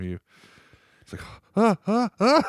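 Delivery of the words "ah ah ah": high, startled little yelps; mock panicked yelps. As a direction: act caught out by a surprise video call. Imitates panic at surprise FaceTime.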